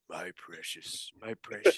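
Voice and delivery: a hammed-up, terrible imitation of a greedy creature; Gollum voice. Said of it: "my Gollum impression is terrible".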